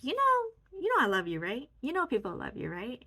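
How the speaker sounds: lifted pitch, loving and reassuring; tender, high comforting voice. Retold or imitated. Consoling her sad younger self, tender and high.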